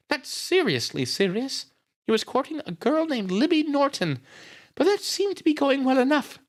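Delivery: high-pitched character voice telling what happened; grieving sister, distressed. A narrator's reading. Nita tells Miss Miller how Brad was found, distressed.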